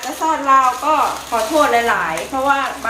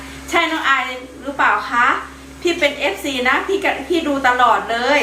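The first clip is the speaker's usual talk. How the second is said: lightly voiced fan, pitched higher; imitated fan; 4 semitones higher than usual. Fan greeting the vlogger on the street, imitated lightly. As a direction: quote a fan's greeting in a slightly raised voice. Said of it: "เพิ่นก็ทักอ่ะ".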